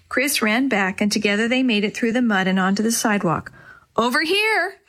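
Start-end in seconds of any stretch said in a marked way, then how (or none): 4.0-4.8 shouting. Acted. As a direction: call the boys over. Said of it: "Maria shouted".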